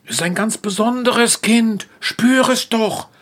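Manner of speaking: leise und sanft, langsamer; beruhigend. Acted. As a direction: den Freund sanft beschwichtigen. Esel beruhigt den Ochsen. (Esel beruhigt den Ochsen, leise und langsam)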